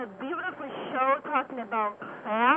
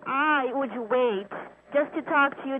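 to someone hard of hearing. Real, not acted. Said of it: "speak up".

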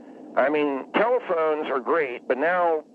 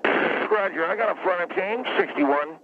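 clipped radio call, higher and brisk; terse pilot radio under strain; 3 semitones higher, slower than usual. Shown as a demonstration. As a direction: fake police radio call. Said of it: "let me get on the radio here".

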